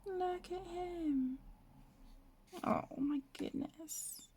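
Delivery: soft slow breathy whisper; hushed whisper. Real, not acted. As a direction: breathe it out in awe. Hushed delight at picture.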